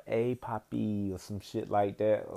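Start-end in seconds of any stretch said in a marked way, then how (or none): 0.0-1.1 slow, soft, drawn-out come-on; lightly mimicked Spanish sweet talk; flirty Spanish woman. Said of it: "like, a Spanish one be like".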